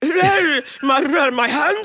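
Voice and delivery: put-on high, stammering British accent; hammed-up bumbling British accent. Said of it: "But in a British accent".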